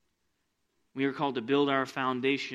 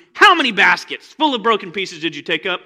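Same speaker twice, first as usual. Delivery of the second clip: normal talking voice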